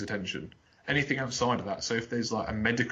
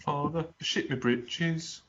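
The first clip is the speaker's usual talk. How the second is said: slow, higher mock Brummie; attempted Brummie; 4 semitones higher, much slower than usual. Child confessing to father, hammed-up Brummie. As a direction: draw it out in a put-on Brummie accent. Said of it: "There we go".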